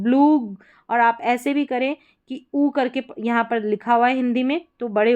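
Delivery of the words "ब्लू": ब्लू said with a long drawn oo. Shown as a demonstration. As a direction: stretch the oo in ब्लू. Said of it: "बड़े ऊ के रूप में".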